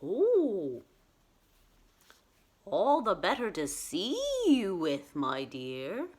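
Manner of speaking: swooping mock-granny reply, dropping at the end; wolf as Grandma. Wolf reassuring Red Riding Hood, lightly voiced swooping granny.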